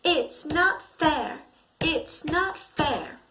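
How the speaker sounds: loud sulky complaint; childish tantrum. Shown as a demonstration. Teacher acting out a child's anger, loud and sulky. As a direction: stamp it out like a cross kid. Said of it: "Angry can make you roar".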